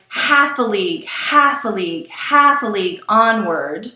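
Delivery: "half a league" with a hard HALF, two light beats after; galloping dactyls. Shown as a demonstration. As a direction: punch each "half", let "a league" fall away. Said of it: "it sounds like horses' hooves".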